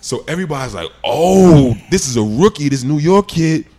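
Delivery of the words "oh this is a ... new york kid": high, amazed teammates, slowing at the end; shocked teammates. Retold or imitated. Teammates watching the rookie blow up, shocked and high. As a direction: gasp it like stunned onlookers.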